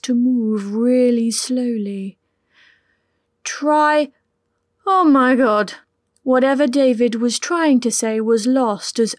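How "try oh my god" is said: sudden breathy cry; startled gasp. A narrator's reading. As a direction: blurt it as you slip. Losing balance mid-word.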